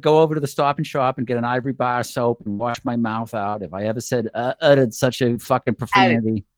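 lightly put-on New England accent. Recalling father's soap punishment, mock New England accent. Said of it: "What's it with a New England accent?".

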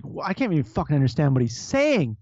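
a hint of a Canadian accent, drifting Irish; lightly put-on accent, slowing at the end; mock Canadian accent. Mimicking how Canadian listeners hear him, a light mock accent. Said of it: "Now I sound like an Irishman".

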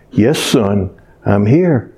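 lightly voiced deity calmly answering a falling man; voice of God. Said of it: "And this voice, just out of nowhere, says".

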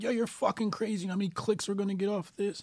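hammed-up excited colleagues; mock hyped coworkers. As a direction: play coworkers hyped about clicks. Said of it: "everybody would be like".

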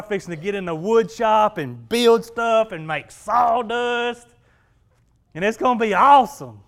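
gleeful Friday daydream, building up; excited inner thoughts. Retold or imitated. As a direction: savor the weekend plans out loud. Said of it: "and I'm thinking".

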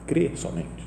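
whisper. Real, not acted. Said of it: "whispered closing of the repeated phrase".

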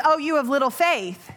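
mildly harsh rebuke; a hint of a stern scolding; a touch harsh. Jesus chiding his disciples, a touch harsh. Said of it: "Sounds a little harsher".

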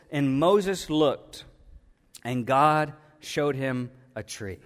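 slow, deliberate reading of scripture. Shown as a demonstration. Preacher reading the verse to the church, slow and deliberate. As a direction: read it out slowly, weighing each phrase. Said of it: "and it says".

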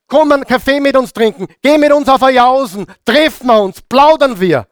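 high, sing-song luring voice; coaxing invitation. Acted. Voices enemies' sweet invitation.

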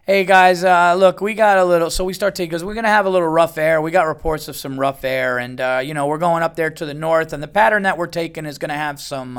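loud, casual pilot announcement; airline pilot. Retold or imitated. Pilot warns passengers of rough air, pilot announcement voice. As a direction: imitate a pilot projecting over the cabin. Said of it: "the pilot goes".

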